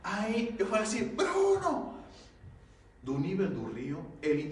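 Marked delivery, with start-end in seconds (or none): 1.1-1.9 high shouted call of a name. Retold or imitated. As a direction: call Bruno across the water in alarm. Calling out to drowning friend.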